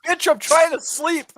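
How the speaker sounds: high, slow, squeaky mock complaint; a put-out neighbour woken by the boxing, played for laughs; mock annoyed neighbour. Mocking a neighbour kept awake by a boxing card, high and slow. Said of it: "You'd be like".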